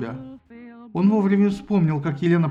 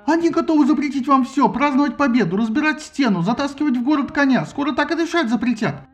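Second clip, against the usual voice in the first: higher, louder fiery speech; demagogue rant; 8 semitones higher, 4 dB louder than usual. A narrator's reading. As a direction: whip up the crowd. Sinon's rabble speech. (пламенная речь)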